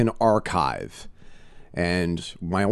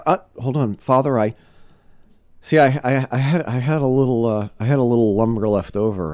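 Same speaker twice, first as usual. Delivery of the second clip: raised, louder, hurried sinner voice; eager confessing man; 5 semitones higher, 6 dB louder than usual. Retold or imitated. Man interrupts the priest, raised and eager. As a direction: blurt out the extra sin over the priest. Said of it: "and he says".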